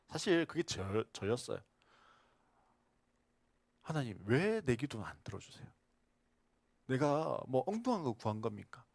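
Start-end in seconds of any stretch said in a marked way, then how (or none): 3.8-8.9 mild arguing. Retold or imitated. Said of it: "하나님 앞에 따지기도 했습니다".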